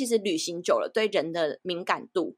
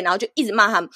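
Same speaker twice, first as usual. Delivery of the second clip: ordinary talk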